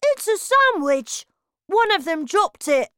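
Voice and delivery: put-on high, loud boyish voice; a greedy boy talking with his mouth busy; Bruno's voice. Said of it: "Bruno answered".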